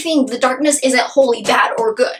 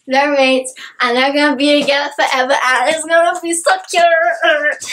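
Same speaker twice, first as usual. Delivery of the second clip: rising, gushing fangirl squeal; retelling her excited freak-out over the mates; 2 semitones higher than usual. Retold or imitated. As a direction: spill it out in excitement. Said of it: "I was just freaking out".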